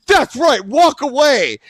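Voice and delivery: mock-tough taunting shout; retold taunt. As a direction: imitate the neighbor jeering after him. Neighbor taunts him as he leaves.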